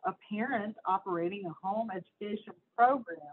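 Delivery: emphatic read-aloud of an article; lightly heightened news-reading voice. Acted. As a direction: read it out to listeners, punching key words.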